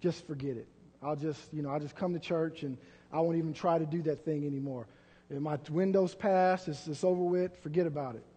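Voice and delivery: soft, low giving up; a hint of hopeless mumbling; defeated resignation. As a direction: sound beaten and resigned. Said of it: "what the enemy would have you do is just say".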